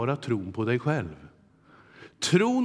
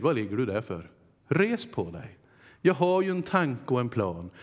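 gentle God's voice; 3 semitones lower than usual. Acted. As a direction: lift someone kindly from the floor. God speaks to one lying flat.

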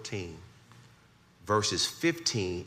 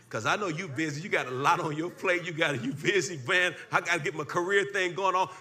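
higher teasing preacher voice; preaching; 9 semitones higher than usual. Acted. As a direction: needle the busy ones. Preaching, mocking busy listener.

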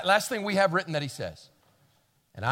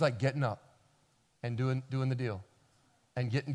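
weary confession; 6 semitones lower than usual. Retold or imitated. Tired parent confessing to Pastor Tom, low and weary. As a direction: sigh it out like a worn-out mom. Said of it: "and you go".

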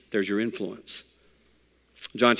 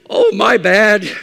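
fake apology; 2 semitones higher, 4 dB louder, slower than usual. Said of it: "pretend like I'm shooting".

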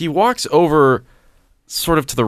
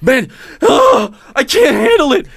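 mock drunk wail; 10 semitones higher than usual. Voicing the drunk neighbor's breakdown, hammed-up wail. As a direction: whine it like a man at the end of his rope. Drunk man voiced, distressed.

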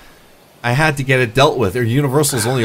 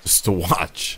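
low, soft creepy echo; creepy, hushed reply; 5 semitones lower, 7 dB quieter, slower than usual. Acted. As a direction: drop it low and quiet, unsettlingly. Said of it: "that kinda sounded creepy".

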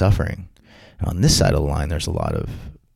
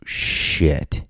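shocked disbelief; 3 semitones higher than usual. Retold or imitated. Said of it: "I went".

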